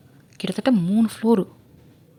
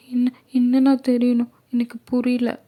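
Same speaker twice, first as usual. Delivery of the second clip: put-on 1 innocent confused girl; 5 semitones higher than usual.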